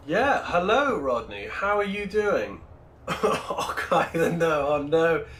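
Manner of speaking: a hint of put-on Scottish accent; attempted Scottish accent. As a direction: greet a viewer in a light mock-Scottish accent. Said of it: "with this accent thing".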